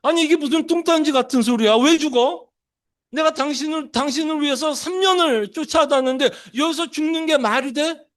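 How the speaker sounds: acting a disciple aghast at Jesus's death; shocked protest. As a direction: protest in stunned disbelief. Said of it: "놀랬을 것 같아요".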